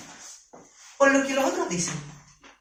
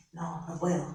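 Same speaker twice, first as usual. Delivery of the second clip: low, soft, worried murmur; quiet anxious thought; 8 semitones lower, 11 dB quieter than usual. Pretend. Scared worker doubting herself about the job market, hushed. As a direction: say it under your breath, losing nerve. Fearful inner voice, sinking confidence.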